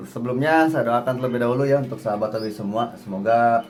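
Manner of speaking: talking around a cigarette; cigarette in mouth. Real, not acted. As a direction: speak with a cigarette between your lips. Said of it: "mohon maaf sambil merokok". (bicara sambil merokok)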